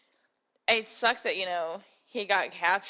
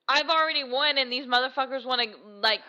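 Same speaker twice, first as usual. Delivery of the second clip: indignant quote, pitched up; mock outrage; 4 semitones higher than usual. Fan quoting the tribute who raged at the viewers, mock outrage. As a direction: act out her defiance, climbing higher at the end. Quotes an enraged film character.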